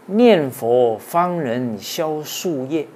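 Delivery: slow, loud, drawn-out recitation of the couplet; measured chanting of a classical verse. Acted. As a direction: declaim each word slowly like scripture.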